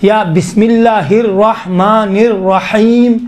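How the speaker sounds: intoned bismillah, set apart from speech; Quranic recitation. Acted. Teacher opening the class, in reciting voice. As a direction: chant it like a recitation.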